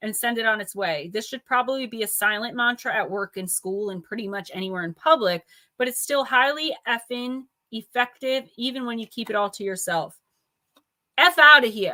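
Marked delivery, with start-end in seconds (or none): 11.2-11.9 very loud, badly done Jersey accent. Giving a mantra to say to send things on their way, attempted Jersey accent. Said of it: "I can't even mimic a Jersey accent".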